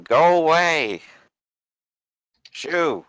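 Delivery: drawn-out, high shooing yell; character yelling. Acted. Player voicing Jules shooing enemies away, yelling. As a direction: holler it high to chase them off. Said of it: "Jules just gonna yell at them".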